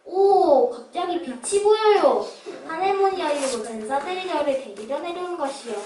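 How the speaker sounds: rising joyful cry of awe; ecstatic. Acted. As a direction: let the wonder burst out loud. Beggar sees heaven's light.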